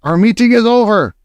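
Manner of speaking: high, commanding witch voice; imperious witch closing the meeting; Grand High Witch announcing. A narrator's reading. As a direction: announce it like a ruling witch queen. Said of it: "announced the Grand High Witch".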